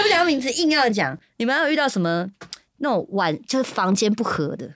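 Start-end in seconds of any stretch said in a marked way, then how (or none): 0.0-1.2 laughing. Real, not acted. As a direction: say it through a laugh, a bit higher.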